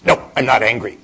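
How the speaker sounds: loud, high snapping denial of anger; angry denial. Retold or imitated. A monk insisting loudly he is not angry. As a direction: shout that you are not angry. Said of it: "usually my response is".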